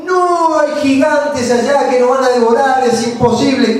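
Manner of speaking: high, alarmed cry of defeat; frightened spies' report. Retold or imitated. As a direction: sound panicked at the giants. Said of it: "cuando los diez espías trajeron el informe".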